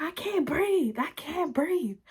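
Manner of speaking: high-pitched imitation of a pinned girl; mock panicked pleading. Pinned girl gasps out complaint.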